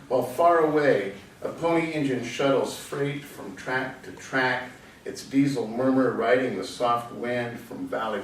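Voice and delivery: measured recitation, phrase by phrase; poem recited to an audience; poetry reading. Acted. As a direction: read the verse out, pausing after each image. Reads another poet's poem.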